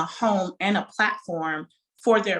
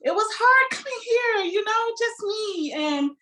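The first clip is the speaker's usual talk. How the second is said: holding back tears; 12 semitones higher than usual. Real, not acted. Owner thanks her supporters on air, choked up. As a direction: voice pitched up, fighting emotion. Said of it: "I'm trying not to get emotional".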